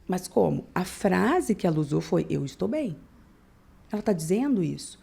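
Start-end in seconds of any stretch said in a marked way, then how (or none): 2.3-3.0 "Eu estou bem" said softly, voice dropping on "bem"; falling, not-okay tone. Shown as a demonstration. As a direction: let "bem" fall away, unconvincing and soft. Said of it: "a entonação que ela usou mostra que ela não tá bem". ("Eu estou bem" com a voz caindo, sem convencer)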